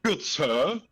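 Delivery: a light put-on British-adjacent accent as the aunt; lightly voiced formal British-adjacent old aunt; a hint of British-adjacent accent, mock formal. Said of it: "my accent is different from my niece".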